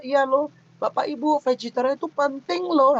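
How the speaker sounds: conversational delivery. Shown as a demonstration. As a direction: read the sentence as if talking to the panel. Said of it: "lo-nya juga dimasukin". (gaya bicara santai, bukan membaca)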